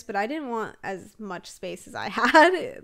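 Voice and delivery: laughing through the words, drawn out. Real, not acted. Sims vlogger laughing to viewers about too much space. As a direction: giggle at your own overbuilding.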